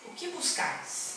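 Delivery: hushed, unvoiced question; whispered question. Jesus asking his followers, in a whisper. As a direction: breathe the question softly.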